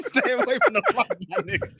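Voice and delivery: high, quick mock Asian accent; hammed-up Asian accent. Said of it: "in the Asian accent".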